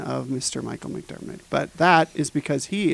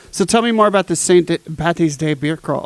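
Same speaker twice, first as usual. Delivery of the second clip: slipping into mock Irish. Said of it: "I d-, tried to do it again".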